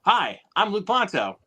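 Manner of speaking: high, stretched-out host greeting; hammed-up Jackass-style hello; Jackass introduction. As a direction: introduce yourself like a stunt-show star. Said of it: "like, a Jackass, like, introduction".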